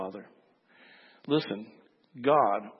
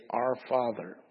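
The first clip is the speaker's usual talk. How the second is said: hushed, softer address to God; reverent prayer voice; 2 semitones lower, 4 dB quieter, slower than usual. Shown as a demonstration. Believer coming before God Almighty, reverent and soft. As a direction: say it as a humble prayer. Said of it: "go before God Almighty and say".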